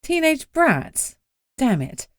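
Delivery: put-on high, slow, let-down Teenage brats?; drawn-out disappointed question; incredulous. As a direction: echo Teenage brats? in disbelief. Narrator's disappointed reaction.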